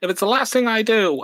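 high, heroic mock vow; hammed-up superhero vow; mock Spider-Man. Spider-Man vowing to get David Duke, high and heroic. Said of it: "He's like".

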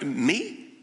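a man who can't believe he's still wanted; incredulous Peter. Acted. Peter disbelieving, recalls his denial.

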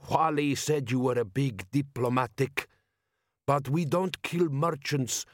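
slow, deliberate desert chieftain voice; a bandit chief speaking slowly in a foreign tongue; Jabbar's voice. Acted. Bandit chief lecturing Vimes on robbery, slow and deliberate.

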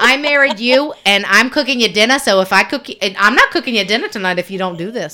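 lightly voiced wife threatening no dinner; imitating mom. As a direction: lay down the law over dinner. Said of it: "I'm like".

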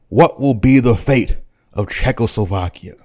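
a hint of a formal press question; lightly voiced reporter. Reporter questioning Hitler at the Munich press conference, lightly formal. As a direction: put the question out to the podium. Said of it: "the first question that was asked".

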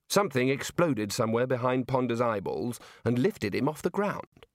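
usual speaking voice

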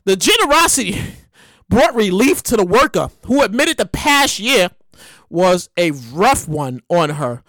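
slow, measured news read with pauses; low, unhurried story read. Acted. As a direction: read the article out deliberately, dropping low at the end.

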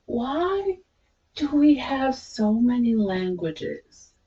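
softly mimicked clueless American girl. Retelling a favorite video of an American girl, lightly mimicked. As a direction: imitate her puzzled question, soft and drawn-out. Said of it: "video watch of some American girl".

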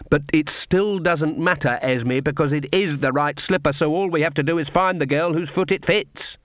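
lightly voiced, self-assured villainess; a hint of a controlling witch; haughty Lily. Lily's dialogue, performed.

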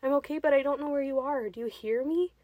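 calling out. A narrator's reading. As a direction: shout up to a lost companion. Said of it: "she called out".

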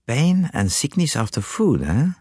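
slow, musing Belgian detective; thoughtful Poirot. Acted. Poirot considers the symptoms, slow and thoughtful. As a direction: weigh each word, pondering. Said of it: "said Poirot thoughtfully".

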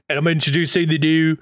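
clumsy attempt at Regal's British accent; quick, badly faked British accent. Podcaster imitating Regal standing in the ring, bad accent. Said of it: "that's such a bad accent".

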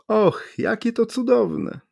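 high, slow gushing wonder; delighted exclamation. A narrator's reading. The stranger gushes at the atheists, high and slow. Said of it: "wykrzyknął zdumiewający cudzoziemiec".

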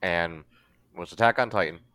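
chewing while talking; talking through a mouthful of nuts; mouth full. Real, not acted. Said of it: "Sorry, I'm chewing".

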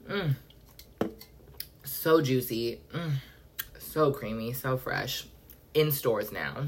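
soft, hushed fake ad voice; mock soda commercial. Sipping Doctor Pepper on the podcast, hushed mock ad read. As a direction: savor it like a cheesy drink ad.

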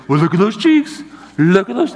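put-on high cooing baby talk; high sing-song voice for an infant. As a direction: coo at a baby's cheeks. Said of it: "you use baby talk".

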